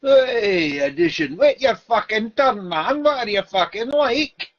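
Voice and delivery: high, loud mock scolding; half-joking high yell at an interrupter; mock telling-off. Real, not acted. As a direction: bark at him to wait his turn. Heckling someone who interrupted.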